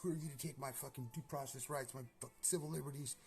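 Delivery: high, furious mock yell at the watchers; high pitched angry tirade; yelling at the drones. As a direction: shout up at them in a rage. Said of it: "telling them".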